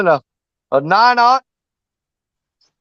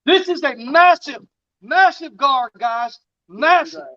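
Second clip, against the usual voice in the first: excited; 5 semitones higher, slower than usual. Real, not acted. Amazed at huge gar.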